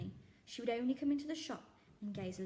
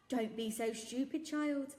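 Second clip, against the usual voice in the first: dismissive shopkeeper; 5 semitones higher, 6 dB louder, slower than usual. Acted. Raj dismissive.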